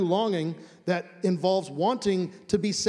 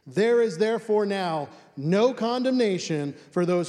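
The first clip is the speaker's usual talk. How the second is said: raised, ringing scripture reading; emphatic verse reading; 2 semitones higher, 4 dB louder than usual. Real, not acted. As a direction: proclaim "no condemnation" with force. Reads the key verse emphatically.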